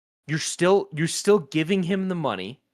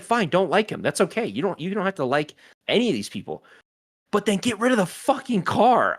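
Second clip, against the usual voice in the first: exasperated lecture; 6 semitones higher than usual. Retold or imitated. Lecturing imagined Tesla owner.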